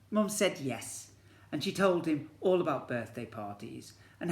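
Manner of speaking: lively picture-book storytelling; story narration. A narrator's reading. Teacher reads to year one in storybook narration. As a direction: read it to the class like a storybook.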